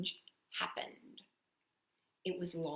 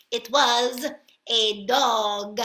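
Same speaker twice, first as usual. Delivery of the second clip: triumphant shout; 2 semitones higher, 9 dB louder, slower than usual. Acted. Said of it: "they shouted triumphantly".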